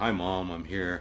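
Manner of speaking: very low, slow, flat drone monotone. Imagining Samuel greeting his mother while she admires his photo, monotone Samuel impression. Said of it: "He's kind of monotone".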